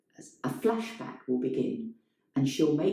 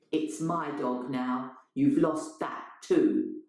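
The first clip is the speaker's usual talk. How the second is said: cold slow reply; slower than usual. Acted. Elena coldly tells Adam the dog is hers now, slow. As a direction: let each word land coldly.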